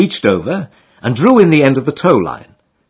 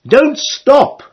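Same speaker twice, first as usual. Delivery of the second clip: much higher, forceful shout; roar; 13 semitones higher than usual. A narrator's reading. Rower roaring to the towing girls, high forceful shout. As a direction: bellow it across the river. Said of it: "you roar".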